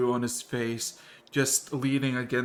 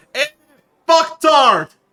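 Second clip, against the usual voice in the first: acted-out yell, much louder and higher; 13 dB louder than usual. Telling a story where a man starts whistling, then retelling his yell. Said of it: "he just yells".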